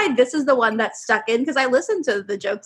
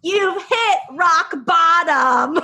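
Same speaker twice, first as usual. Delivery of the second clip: laughing; 5 semitones higher, much slower than usual. Real, not acted. Joke punchline.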